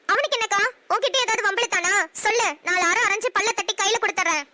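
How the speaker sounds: mild angry outburst. Acted. Younger sister threatening the boy who may bother her sister, mildly angry. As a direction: bristle protectively for your sister. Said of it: "ஏன்டி கத்துற?".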